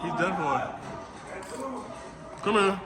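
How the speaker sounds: talking with mouth full; munching chips while talking; chewing while talking. Real, not acted. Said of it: "I'm sorry if I'm munching in y'all ear".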